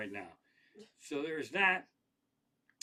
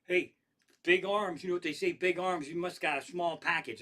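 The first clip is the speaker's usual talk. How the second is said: mildly raised heckler's call; retold yell; 3 semitones higher than usual. Retelling a guy yelling across the street, mock yell. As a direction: lightly imitate a guy calling out. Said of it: "a guy yelled out".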